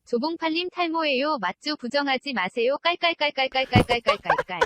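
synthetic text-to-speech read; flat machine reading voice; TTS voice. Real, not acted. TTS reads chat aloud. (기계 음성)

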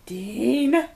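shrill, hammed-up scream of lust at Dean; high, loud mock cry of desire; mock passionate scream. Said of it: "something you'd scream at Dean".

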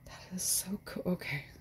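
hushed, breathy whisper of amazement; awed whisper. Real, not acted. Vlogger admiring a surprise gift, awed whisper. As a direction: whisper it in real awe.

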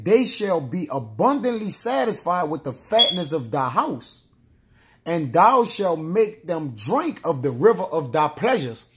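measured reading of a Bible verse; solemn scripture read. Acted. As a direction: read the verse as holy text. Reads scripture aloud.

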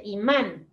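imán with the weight on the final "án"; stress on final syllable. Shown as a demonstration. Teacher explaining the accent mark, stress on final syllable. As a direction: say "imán" leaning on the á. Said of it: "La fuerza está en la A".

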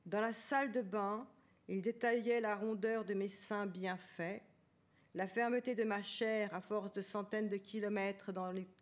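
plain reading voice

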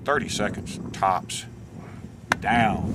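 loud, punchy showman boast; hammed-up enthusiasm. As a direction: sell it like a TV host. Hammed-up nature guide boast.

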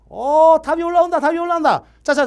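high, loud excited call; excited announcing. Real, not acted. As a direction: call it out like answers are pouring in. Announcing answers coming in.

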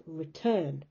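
reTURN, with re almost hidden; stress on TURN. Shown as a demonstration. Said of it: "It almost hides in your mouth".

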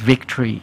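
victory slowly, with a buzzing V; voiced, vibrating V. Shown as a demonstration. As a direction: make the V in victory vibrate in the throat. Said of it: "ต้องสั่น".

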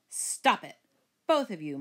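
mild motherly scolding; understated, firm telling-off; mom scolding. Acted. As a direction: tell off both children without raising your voice. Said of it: "Mom scolded".

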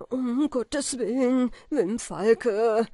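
höher und lauter, langsam flehend; verzweifelter Schrei. A narrator's reading. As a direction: fleh ihn in Todesangst an. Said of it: "schrie er mit der Stimme der Verzweiflung". (verzweifelt schreiend, flehend)

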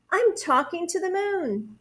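high, thrilled little voice; excited. A narrator's reading. Bear believes he is talking to the moon, excited. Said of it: "Bear got very excited".

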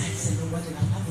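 low, soft prayer under the breath; private prayer. Acted. Wise wife praying on her way, quiet private prayer. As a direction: pray softly to yourself. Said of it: "y ella va orando".

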